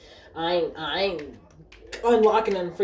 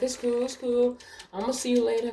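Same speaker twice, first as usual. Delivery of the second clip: higher-pitched mock nonchalance; raised put-on voice, acting unbothered; imitating rejected suitor; 7 semitones higher than usual. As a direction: shrug off rejection as the customer. Retold suitor brushing off rejection.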